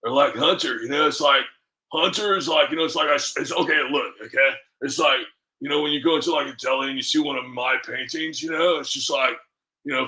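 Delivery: lightly voiced defensive painter; a hint of an aggrieved self-styled artist; Hunter Biden. Shown as a demonstration. Comic as politician's son selling paintings, lightly put-on defensive voice. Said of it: "that's how I do their voices".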